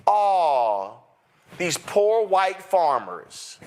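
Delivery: slow mock sympathy; drawn-out fake pity sigh. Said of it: "supposed to sit back and go".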